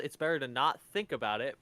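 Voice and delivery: ordinary talk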